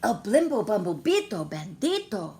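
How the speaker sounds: loud, ominous naming of the villain; dramatic announcement. Acted. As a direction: boom out the villain's name.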